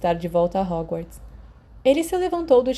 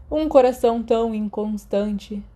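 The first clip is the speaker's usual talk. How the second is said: suspiro teatral; 3 semitones higher than usual. Acted. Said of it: "James suspirou".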